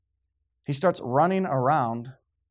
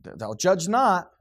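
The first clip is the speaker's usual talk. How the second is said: mocking quote; 3 semitones higher, slower than usual. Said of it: "That's what they always say".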